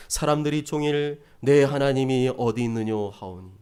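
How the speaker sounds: low, measured reading voice; scripture reading. Acted. Preacher leading the congregation in verses, solemn reading. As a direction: read the verse aloud, low and evenly.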